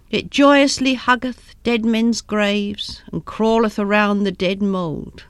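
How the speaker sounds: slow, savoured recitation; drawn-out reading of old verse; verse recital. A narrator's reading. Wife quotes grim poem to husband, slow and relishing.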